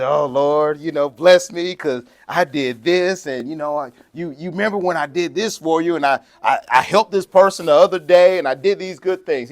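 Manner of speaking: lightly acted boastful prayer; mock self-important prayer. Preacher imitates know-it-alls reminding God of good deeds, mock prayer. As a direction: plead your own merits, pitch creeping up.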